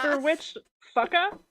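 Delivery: a bad Australian fucker; mock Australian accent. Shown as a demonstration. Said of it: "try to do my accent".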